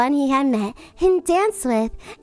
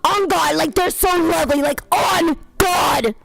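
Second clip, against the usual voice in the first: gushing stepmother; 3 semitones higher than usual. Acted. Stepmother fawning over the prince at the door.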